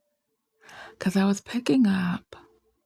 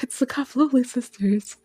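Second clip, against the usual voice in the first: anime announcer; 7 semitones higher than usual. Retold or imitated. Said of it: "people just like".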